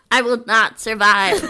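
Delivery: high, loud giggling whine; laughing mock plea. Friend voicing a doomed pup through laughter.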